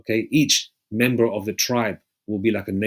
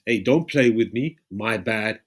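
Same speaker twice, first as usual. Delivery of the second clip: mock movie hip talk; 3 dB louder, slower than usual. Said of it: "they even put this in movies".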